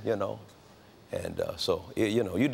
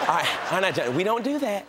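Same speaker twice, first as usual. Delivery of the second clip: mock gentle mother; 5 semitones higher than usual. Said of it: "Sitting up there talk".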